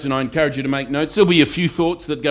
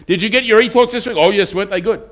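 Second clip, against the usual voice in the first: higher, lightly voiced smug churchgoer; mock churchgoer; 6 semitones higher than usual. Preacher mocking churchgoers who only listen, higher mock voice. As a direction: lightly send up the nodding listeners. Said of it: "There are people that hear".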